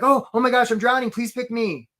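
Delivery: high, mock-panicked plea; hammed-up cry for help; desperate job seeker. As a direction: act out a needy candidate begging. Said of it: "they're like, they're, they're like".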